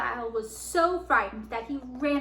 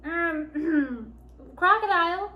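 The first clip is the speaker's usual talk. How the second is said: hesitant, higher-pitched opening with a cleared throat; hesitant address; 5 semitones higher, 5 dB louder, slower than usual. A narrator's reading. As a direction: clear your throat before daring to speak. Timid Lion addresses the Crocodile.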